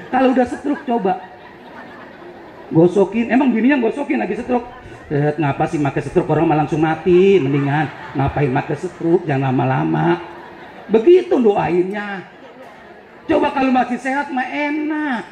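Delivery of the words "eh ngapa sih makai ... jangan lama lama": low, mock-nagging grumble; a wife griping at her sick husband; grumbling wife. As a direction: grumble at him impatiently. Wife grumbling at stroke-stricken husband.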